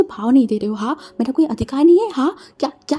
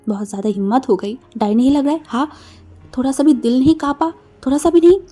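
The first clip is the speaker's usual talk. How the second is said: simmering reproach that boils over into shouting; grave scolding; 3 dB louder than usual. Acted. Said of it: "अपनी गंभीर voice में बोला". (गंभीर डांट जो चिल्लाहट तक बढ़ती है)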